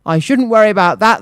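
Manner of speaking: smug, amused mayor; grinning. Acted. Mayor grinning at the worried monk. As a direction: say it with a grin. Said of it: "the mayor grinned".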